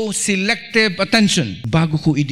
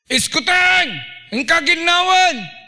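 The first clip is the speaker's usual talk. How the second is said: calling out; 11 semitones higher than usual. Acted. Parent calling an unheeding child, high hammed-up holler. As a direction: holler it high at a child who ignores you.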